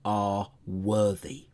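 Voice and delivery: deep, slow ancient god voice; eldritch horror. Retold or imitated. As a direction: intone it like an elder god. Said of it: "the deep, resonating voice of some ancient elder god".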